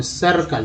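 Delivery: सर्कल with the I said as "uh"; I as short uh. Shown as a demonstration. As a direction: say सर्कल softly, first vowel a neutral "uh". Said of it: "आई का उच्चारण अ के रूप में".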